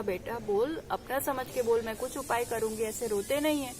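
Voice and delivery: lightly voiced mother comforting a crying boy; soft comforting. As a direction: gently coax the boy to talk. Old mother comforting crying youth.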